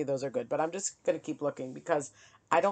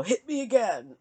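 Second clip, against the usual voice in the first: mock defeated plea; 6 semitones higher, 5 dB louder than usual. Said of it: "it's almost like".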